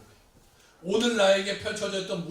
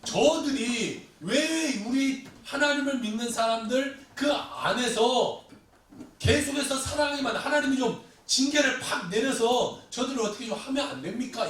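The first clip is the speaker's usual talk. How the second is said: higher-pitched, urgent appeal; questioning God; 4 semitones higher than usual. Acted. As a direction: plead for God to step in. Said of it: "하박국은 하나님께 또 질문합니다".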